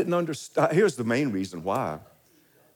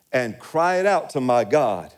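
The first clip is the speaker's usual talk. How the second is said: slow, emphatic "cried out to my God"; 3 dB louder than usual. Real, not acted. Preacher reading David's plea from scripture, slow and emphatic on "cried out". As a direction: lean slowly on "cried out" in "cried out to my God". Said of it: "emphasis, called out, cried out".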